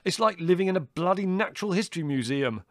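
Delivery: high, exasperated tirade; outraged shouting. A narrator's reading. Son complaining to mother about the house, outraged. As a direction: rant at mother, pitched right up. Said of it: "shouted Larry".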